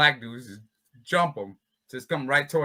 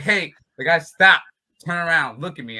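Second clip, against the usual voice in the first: shouting; 3 semitones higher, 6 dB louder than usual. Retold or imitated. Retold calling out to attackers.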